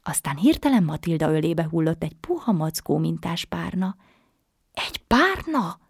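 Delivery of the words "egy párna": a much higher puzzled question; girl puzzled by a gift pillow; startled high question; surprised. Acted. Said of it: "kérdezte meglepődve Matilda".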